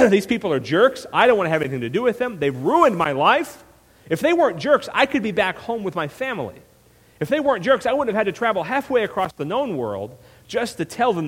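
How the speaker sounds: lightly acted exasperated complaint; resentful rant. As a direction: grumble like a put-upon prophet. Acting out Jonah's resentful rant.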